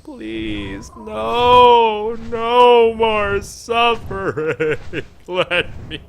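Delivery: high, loud, slow hammed-up begging; mock desperate plea. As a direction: ham up a tortured plea for mercy. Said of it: "I'm just like".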